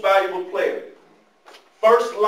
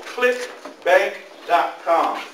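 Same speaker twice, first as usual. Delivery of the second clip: slow dictation; 3 dB louder, much slower than usual. Real, not acted. Spelling out a website.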